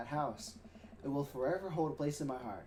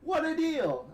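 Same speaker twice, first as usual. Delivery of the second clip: cheesy announcer voice. Acted. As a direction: draw it out like a cheesy TV salesman. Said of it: "do my best cheesy announcer voice".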